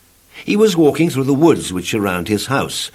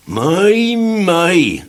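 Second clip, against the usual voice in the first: gently; 8 semitones higher, 5 dB louder than usual. Acted. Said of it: "said the tramp gently".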